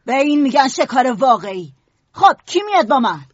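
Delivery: swagger, daring the others; proud. Acted. Jack with his spear challenging the boys, proudly. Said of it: "جک با غرور نیزش را برداشت".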